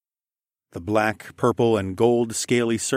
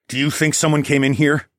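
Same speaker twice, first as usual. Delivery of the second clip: louder, tense demanding question; 5 semitones higher, 5 dB louder than usual. A narrator's reading. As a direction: demand an answer. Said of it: "I demanded".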